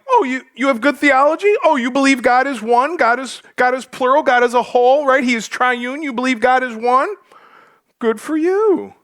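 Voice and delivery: sarcastic, mock-congratulating; sarcastic James. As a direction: talk down to him like a smug big brother. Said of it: "That's how you gotta read that".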